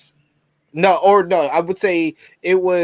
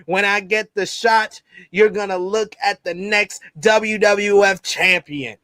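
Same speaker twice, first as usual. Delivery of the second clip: Austin impression. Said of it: "I'm gonna try my best Austin voice".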